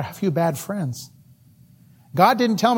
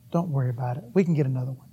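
tender apology; 5 dB quieter than usual. Acted.

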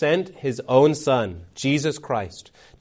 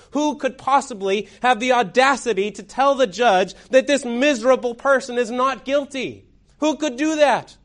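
high, scandalized questioning; incredulous outrage; 7 semitones higher than usual. Acted. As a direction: ask in disbelief, pitch climbing to the end. Courtroom's astonished reaction to the voice.

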